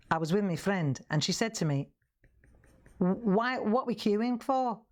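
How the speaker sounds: lightly imitated Liverpool accent; Hilda. Demonstrator acting a customer explaining her laughter, light Scouse. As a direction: retell it with a Scouse lilt. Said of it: "let me see if I can get the accent right".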